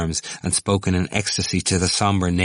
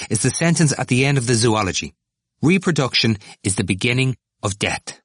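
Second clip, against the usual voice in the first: raised pitch, settling toward the end; enthusiastic; 6 semitones higher than usual. A narrator's reading. Temple quoting the zoology book to Stephen, enthusiastic. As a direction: pronounce it as a great revelation. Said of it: "Temple said with enthusiasm".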